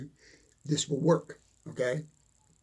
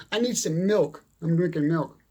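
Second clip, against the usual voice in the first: ordinary talk, nothing marked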